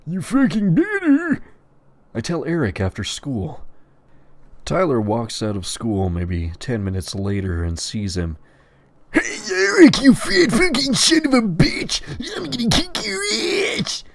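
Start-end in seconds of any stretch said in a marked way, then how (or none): 0.1-1.4 character threat. Acted. Tyler warns Anon. 9.1-14.0 very high, loud yell; character yelling challenge. Acted. Tyler challenges Eric.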